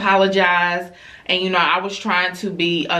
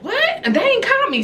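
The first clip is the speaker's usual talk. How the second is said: retold surprise; faster than usual. Mother retells surprised reply to call.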